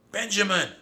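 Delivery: high, loud call of a name; crying out. A narrator's reading. Narrator's mouse spots his nephew in the sea, crying out. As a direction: cry out as you spot him. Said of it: "I cried".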